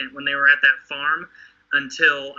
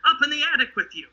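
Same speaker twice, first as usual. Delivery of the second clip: mock father and son; 6 semitones higher than usual. Rick and his son Carl.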